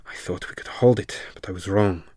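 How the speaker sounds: loud hissing whisper of a monster; whispered creature hiss; sibilant hiss. A narrator's reading. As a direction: hiss it through needle teeth. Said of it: "a sibilant hiss through needle teeth".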